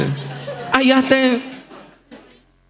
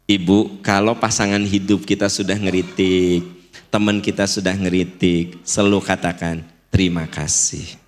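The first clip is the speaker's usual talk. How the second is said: calm advice; 11 semitones lower than usual. Shown as a demonstration. Coaches calm reply to criticism.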